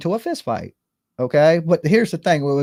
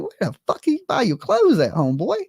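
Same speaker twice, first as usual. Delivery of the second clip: retold disbelief; 4 semitones higher than usual. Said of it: "I'm like".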